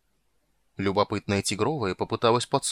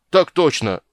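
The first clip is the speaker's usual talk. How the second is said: much louder, higher eager shout; joyful bellow; 6 semitones higher, 8 dB louder, slower than usual. Acted. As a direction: yell it with delight. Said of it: "Обрадовался, разорался".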